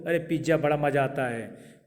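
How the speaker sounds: ordinary talk, nothing marked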